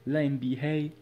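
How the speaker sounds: "la N B A" in a light mock American accent. Showing off his accent to viewers, mock American. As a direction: toss off "la N B A" in a playful American accent. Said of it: "t'as vu l'accent ou pas?".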